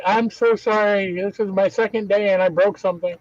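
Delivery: retold distressed apology, pitch lifted on the sorry; mildly acted upset apology. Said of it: "But he was so upset".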